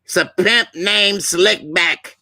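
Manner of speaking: character catchphrase voice. Acted. Performing a cartoon character's catchphrase.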